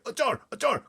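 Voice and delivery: high, loud cry of triumph; excited cry. A narrator's reading. Giant calls to Sophie for a jar, excited cry. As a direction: call out for the jar, thrilled. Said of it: "he cried".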